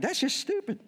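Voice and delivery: high-pitched exasperated verdict; scornful exasperation. Retold or imitated. Dad fed up with texting, scornful.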